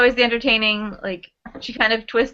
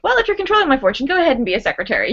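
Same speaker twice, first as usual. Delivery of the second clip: sassy retort; 2 semitones higher, faster than usual. Retold or imitated. Heroine dismisses her controlling brother, quick and sassy.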